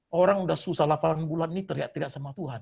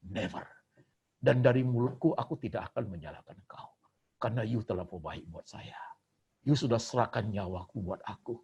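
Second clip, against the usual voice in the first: humble prayer. Acted. Believer's imagined prayer to God.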